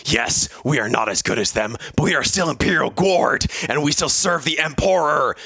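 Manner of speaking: mildly voiced indignant sergeant, building at the end; furious sergeant. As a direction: protest to the captain with a touch of fury, rising toward the close. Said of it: "said a furious Sergeant Regal".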